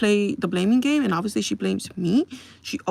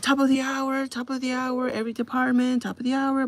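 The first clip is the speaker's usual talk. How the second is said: raised-pitch mock intercom call; intercom yell; 4 semitones higher than usual. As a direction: call it out evenly on one high note, like a store announcement. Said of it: "I yelled in the intercom".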